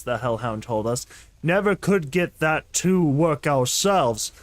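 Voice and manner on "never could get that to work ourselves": slow, rough orc growl. Acted. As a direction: give him a slow monster growl with laughs breaking in. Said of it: "I'm gonna make him sound like an orc".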